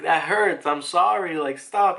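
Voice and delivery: put-on a touch of a crying kid; whimpering child. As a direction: plead like a hurt kid, mildly acted. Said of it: "And he starts crying".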